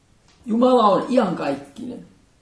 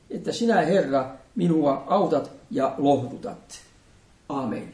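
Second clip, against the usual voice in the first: solemn, measured reading of the psalm; scripture reading. Acted. Pastor reads Sunday psalm to congregation, solemn and prayerful. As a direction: read each verse as a prayer, pausing between lines.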